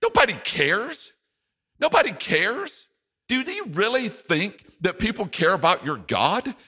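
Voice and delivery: high sneering taunts; mocking ridicule. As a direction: scoff like a scornful enemy. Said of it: "It will come in such forms as this".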